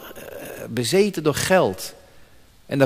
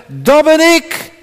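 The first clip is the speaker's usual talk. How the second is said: slow, high, solemn declaration; a slow, lofty I AM; Jesus declaring; 10 semitones higher, 6 dB louder, slower than usual. Acted. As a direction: proclaim it slowly like a king. Jesus answers the soldiers.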